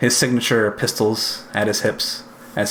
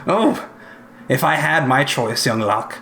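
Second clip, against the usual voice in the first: slightly high-pitched vault keeper; lightly voiced mentor weighing a danger; musing mentor Olgath; 4 semitones higher than usual.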